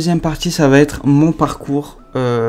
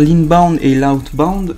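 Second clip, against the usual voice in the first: slow English terms in a French accent; slower than usual. Real, not acted. Vlogger clarifying terms for viewers, French-accented English. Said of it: "vous casser les oreilles avec mon accent".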